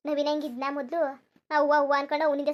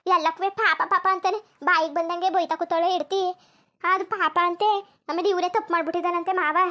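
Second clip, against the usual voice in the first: loud complaining; 2 semitones higher, 4 dB louder than usual. Acted. Daughter-in-law complains to aunt.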